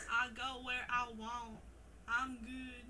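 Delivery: put-on southern accent, half-laughing. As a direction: lyrics through a giggly southern accent. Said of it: "Read the song lyrics in your southern accent"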